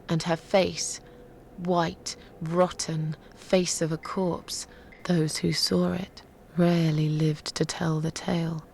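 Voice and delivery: measured, dramatic telling of a dark legend; grim storyteller building to revenge; story narration. Acted. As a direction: draw out the tale phrase by phrase, with weighty pauses.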